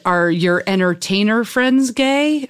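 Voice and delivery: slow, halting mock of a nervous mother; stumbling question. Catholic mother stumbling through asking her daughter, slow and halting. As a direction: ease into it, slowly and awkwardly. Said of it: "she kinda stumbled through it".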